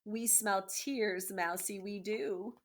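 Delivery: slow gloating taunt. Acted. Rats taunting the crying mouse, slow and gloating. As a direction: savour each word like a hungry rat.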